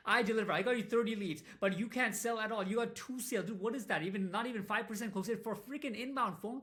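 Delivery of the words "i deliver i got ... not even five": louder, pressing, complaining to the client; hammed-up gripe at a weak closer; louder blame-shifting rant; mock complaint. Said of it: "all day say".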